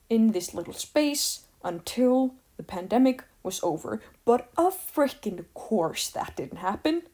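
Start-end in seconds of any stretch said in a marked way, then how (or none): 4.2-7.0 exasperated, ending on a rise. Real, not acted. Vlogger on borders never being closed, exasperated. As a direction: say it with fed-up emphasis.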